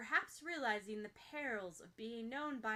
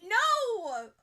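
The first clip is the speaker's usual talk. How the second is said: shrill, much higher loud denial; panicked high squeak of denial; high-pitched no; 11 semitones higher, 14 dB louder than usual. A narrator's reading. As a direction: squeal it like a dog whistle. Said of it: "at a pitch ... like a dog whistle".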